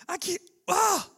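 high, mock-exasperated voice of a fed-up Jesus; hammed-up disbelief at faithless jokers. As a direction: squeal it as a fed-up teacher giving up. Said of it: "not like".

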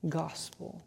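the word dropped almost to nothing after a long pause; a sudden hush on the key word; hushed emphasis. Real, not acted.

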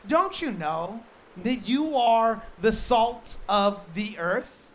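slow, deliberate voicing of Jesus; preacher voicing Jesus to the church, slow and weighty; Jesus quoted. Quoting Jesus with emphasis.

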